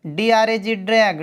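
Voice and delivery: "ड्रैग" closed on a g sound, after its letters; final hard G. Shown as a demonstration. Teacher spelling an example, "ड्रैग" ending on hard g. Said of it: "तो हमेशा उच्चारण ग होता है".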